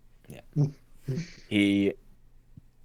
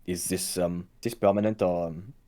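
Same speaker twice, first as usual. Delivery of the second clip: hesitant, quiet puzzled guard; perplexed; 3 semitones lower, 5 dB quieter than usual. Acted. Guard asking about a man turned strange, quietly perplexed. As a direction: ask softly and haltingly, baffled. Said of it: "The guard just looks in perplexed".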